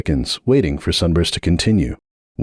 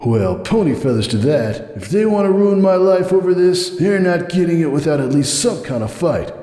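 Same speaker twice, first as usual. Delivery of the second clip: cold defiant stallion, much higher; refusing flatly, pitched up and firm; Hoops' voice; 11 semitones higher than usual. A narrator's reading. Hoops refusing Sunburst's plea, cold and defiant.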